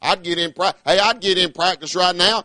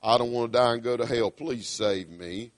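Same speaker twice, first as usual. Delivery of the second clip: humble plea; 4 semitones lower, 5 dB quieter than usual. Retold or imitated. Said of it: "said these words".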